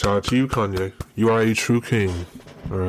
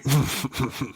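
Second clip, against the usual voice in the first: chuckle; 4 semitones higher than usual. Real, not acted. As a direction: chuckle at your own bit. Laughs at own country bit.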